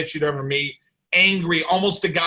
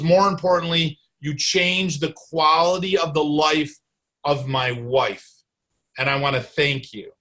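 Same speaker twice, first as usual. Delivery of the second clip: moved, almost crying. Real, not acted. Doctor retells a grateful patient's thanks, moved near tears. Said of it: "I almost cried telling you".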